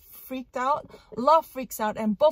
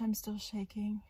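ordinary delivery

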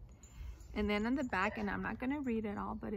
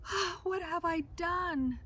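higher, shocked gasp of horror; gasping in dismay; 8 semitones higher, 4 dB louder than usual. Acted. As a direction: gasp as the tooth comes out. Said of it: "then gasped".

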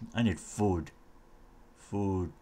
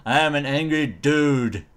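louder, hammed-up angry declaration; mock angry; 3 semitones higher, 5 dB louder than usual. Player in spider armour as an angry dude, mock anger. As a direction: announce it with pretend anger.

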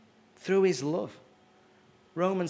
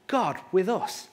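a touch of stunned disbelief; 4 semitones higher than usual. A narrator's reading. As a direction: say it as if you can't believe it. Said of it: "spoke in a tone of disbelief".

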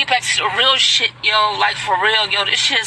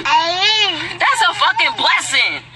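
slow, tearful and higher; crying; 4 semitones higher, much slower than usual. Real, not acted. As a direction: choke it out through real tears. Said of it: "I'm crying because I'm so passionate".

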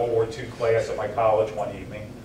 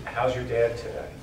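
imitating a general's calm, measured concern. General asking about the writer's dad, very calm voice. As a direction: ask gently, as the calm general did. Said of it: "Very calm voice".

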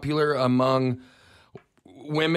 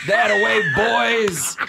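cheering teammates; 7 semitones higher, 6 dB louder, slower than usual. Retold or imitated. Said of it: "y'all say boys, like".

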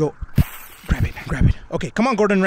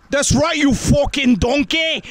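slow, louder chef's yell, a loosely done Gordon Ramsay; Gordon Ramsay impression; 4 semitones higher, 3 dB louder than usual. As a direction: bark the insult like an angry TV chef, slow and loud. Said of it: "Gordon Ramsay style".

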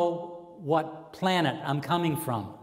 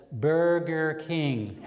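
slow deadpan answer; much slower than usual. Acted. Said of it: "He says".

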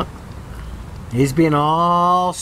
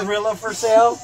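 laughing; 2 semitones higher than usual. Real, not acted. Laughing at a cartoon.

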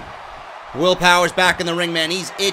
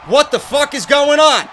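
baffled yell; 5 semitones higher, 4 dB louder than usual. Real, not acted. Confused gamer yelling at chaos.

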